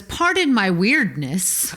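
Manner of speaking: slow, lightly voiced robot apology; a hint of robot, words drawn out slowly; apologetic robot. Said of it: "A robot that goes".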